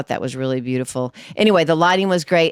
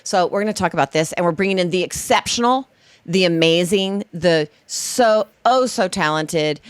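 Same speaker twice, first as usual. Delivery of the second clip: excited host introduction; 3 semitones higher than usual. Real, not acted. Host hyping guest Darren to the audience, excited. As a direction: build up the guest like a showman. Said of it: "introducing the guest".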